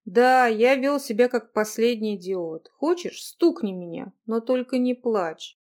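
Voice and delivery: gentle pleading. Acted. He begs her forgiveness.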